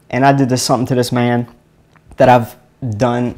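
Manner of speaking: ordinary talk, nothing marked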